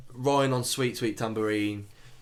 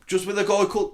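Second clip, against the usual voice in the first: put-on lightly posh, higher voice losing its accent; slipping posh accent; 5 semitones higher than usual. The speaker on the phone to Matt, wobbly posh accent. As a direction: attempt posh and let it slip. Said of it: "oh, my accent's changed again".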